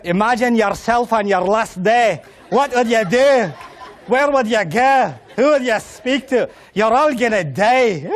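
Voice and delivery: Scottish preacher, drawn out and ominous; mock Scottish sheikh warning of death; Scottish accent. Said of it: "completely Scottish accent".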